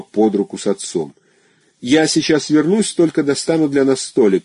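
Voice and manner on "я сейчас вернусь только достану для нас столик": calling back. A narrator's reading. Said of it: "крикнула она, оглядываясь".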